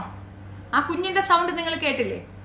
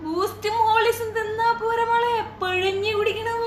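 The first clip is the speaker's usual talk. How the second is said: mocking taunt; 5 semitones higher than usual.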